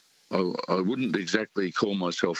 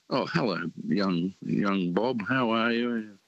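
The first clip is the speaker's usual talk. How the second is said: pleasant greeting; 3 semitones higher, slower than usual. Retold or imitated. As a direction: greet a young acquaintance pleasantly, voice lifted. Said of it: "it was quite pleasant times to see him".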